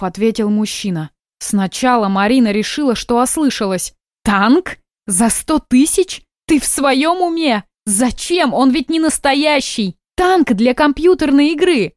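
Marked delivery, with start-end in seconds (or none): 4.2-4.8 stunned wife shouting in disbelief at her husband; shocked outburst. Acted. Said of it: "Не ори!". 5.1-6.2 slow, higher disbelieving rise on "сто"; shocked question. Acted. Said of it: "Не ори!". 6.5-11.9 stunned wife shouting in disbelief at her husband; shocked outburst. Acted. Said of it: "Не ори!".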